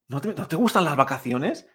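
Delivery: a touch of disbelief; mild astonishment. Acted. Teacher playing someone surprised about holidays, mildly astonished. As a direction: ask it as if lightly amazed. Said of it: "muestra más asombro".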